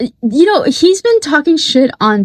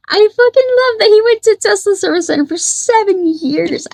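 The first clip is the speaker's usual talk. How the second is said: laughing; 9 semitones higher than usual. Real, not acted. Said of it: "laughing while talking".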